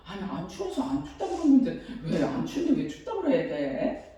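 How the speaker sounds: soft inner grumble, said to herself; inner thought. Retold or imitated. Mother answering her son only in her head, softly. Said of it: "그래서 내가 속으로".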